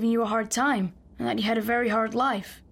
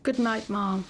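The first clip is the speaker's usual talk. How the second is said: whispered good night; slower than usual. Acted. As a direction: breathe it out hurt. Hurt boy says good night.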